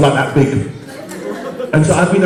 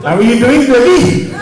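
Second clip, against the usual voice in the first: put-on Pakistani accent; 5 semitones higher than usual. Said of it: "putting on a Pakistani accent".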